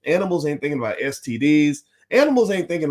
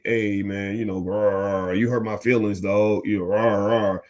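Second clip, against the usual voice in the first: lower, slowed mock bear chat with little growls; bear talking it out; 3 semitones lower, slower than usual. Speaker mocks an angry bear trying to talk it out, low and growly. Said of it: "you think they're gonna just talk it out?".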